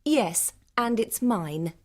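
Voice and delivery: high, slow, smug claim; arrogant. Acted. Blonde woman claims the only car, arrogant. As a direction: claim it as if beyond dispute. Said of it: "said the blonde arrogantly".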